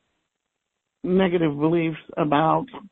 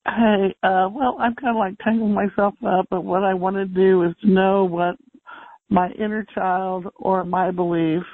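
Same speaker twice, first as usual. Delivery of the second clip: muffled, like a hand over the mouth. Real, not acted. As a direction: speak through a covered mouth. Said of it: "you're a little muffled".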